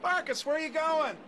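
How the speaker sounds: high calls after the runaway dog; calling out. Acted. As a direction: call the dog back through the rain. Boy calling dog into the rain.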